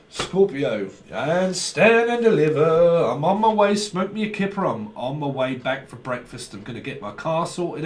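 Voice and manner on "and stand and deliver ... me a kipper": hammed-up catchphrase. Quoting catchphrases with flair.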